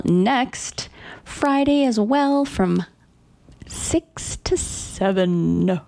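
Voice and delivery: drawn-out, slow announcer call over the arena; practising the old powwow MC voice. Acted. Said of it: "practice my old powwow M C voice".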